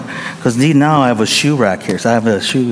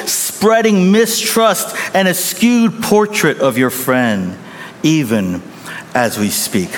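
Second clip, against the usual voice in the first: gently. Retold or imitated. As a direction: explain it kindly, slowing down. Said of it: "The pastor spoke gently".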